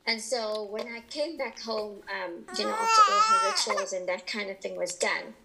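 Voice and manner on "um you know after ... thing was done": choked up. Real, not acted. Grief over grandmother's funeral.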